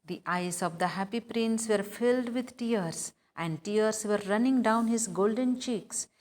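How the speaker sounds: slow, careful reading aloud of the tale; story reading. Acted. Teacher reading the story slowly to students. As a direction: read the sad passage slowly to the class.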